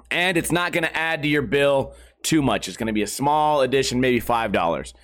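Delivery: saleswoman voice. Retold or imitated. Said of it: "She goes".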